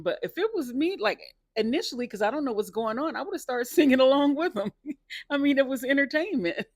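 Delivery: high-pitched, amused through laughter; laughing. Real, not acted. Fan picturing herself singing along, laughing. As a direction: talk through real giggles.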